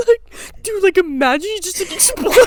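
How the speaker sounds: put-on high, loud goofy kid voice; seven-year-old boy voice. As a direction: crack yourself up like a little boy. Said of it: "the voice makes it so much funny".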